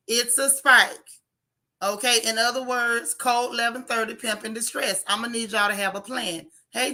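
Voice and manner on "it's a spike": hoarse, scratchy and louder; raspy voice. Real, not acted. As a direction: push it through a sore throat. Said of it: "my little raspy voice sounding like Wheezy Jefferson".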